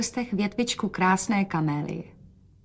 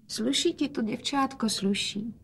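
softer, higher tender words; speaking softly; 3 semitones higher, 7 dB quieter than usual. A narrator's reading. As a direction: gently praise his daughter. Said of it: "hovořil otec tiše". (otec tiše a něžně)

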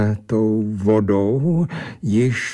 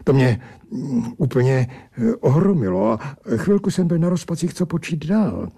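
ordinary delivery, nothing marked

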